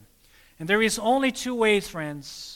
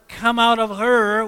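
loud, higher call of "Come out of her"; proclaiming call; 3 semitones higher, 7 dB louder than usual. Acted. Preacher calling the congregation out of Babylon, loud. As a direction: ring it out like a voice from heaven.

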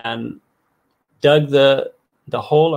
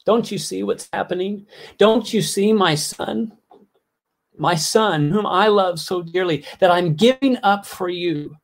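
crying out; 4 semitones higher than usual. Retold or imitated. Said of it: "perhaps God himself wanted to cry out".

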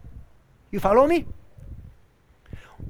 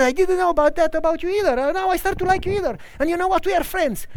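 higher, quicker voice of the rich man; a lightly voiced, brisk and friendly benefactor; cheerful rich man; 7 semitones higher, faster than usual. Rich man tells the listener they are friends, cheerfully.

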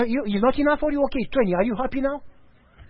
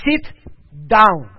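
"Sit ... down" with a pause, "down" much louder; firm insistent command; 3 semitones lower, 4 dB louder than usual. Acted. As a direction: cut him off and insist. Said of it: "And he says".

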